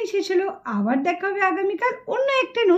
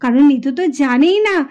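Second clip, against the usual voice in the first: story narration. A narrator's reading. Narrator telling listeners that Nitu is a spirit, storytelling. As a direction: reveal the twist to listeners.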